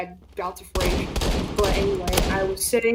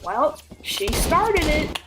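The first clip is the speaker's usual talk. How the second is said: slow, shrugging dad line; easygoing dad; 5 semitones higher, much slower than usual. Retold or imitated. Dad defending daughter, slow and unbothered. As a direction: casually take her side. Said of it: "and he was like".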